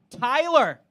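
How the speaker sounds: loud mock-American holler; calling out. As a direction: call your buddy from across the room. American calls out to his buddy.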